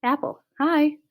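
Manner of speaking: high, loud call across a crowd; yelled greeting. A narrator's reading. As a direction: holler an eager hello. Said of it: "Berta yells out".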